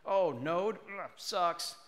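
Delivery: zealot's scornful groan; mock disgust. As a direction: sneer it like a tech snob. Mocking language zealots' scorn.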